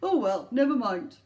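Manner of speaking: loud, easygoing elf; elf shrugging. Acted. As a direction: let it go as the elf.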